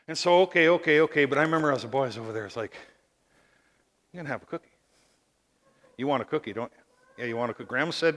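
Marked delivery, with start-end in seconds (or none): 4.1-7.7 low, hushed coaxing; tempting inner voice. Acted. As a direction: tempt softly, like a secret. Cookie tempts him as a boy.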